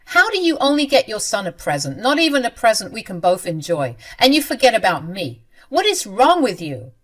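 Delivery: angry confrontation. Acted. Wife confronts mother-in-law about the anniversary gift: angry shout. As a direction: demand an answer, outraged.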